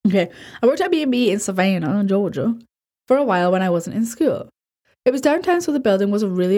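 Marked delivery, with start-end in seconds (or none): 1.4-2.6 light put-on Southern accent; a touch of mock Southern on the place. Retelling the job after apologizing, light Southern accent. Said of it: "I actually do a really good Southern accent".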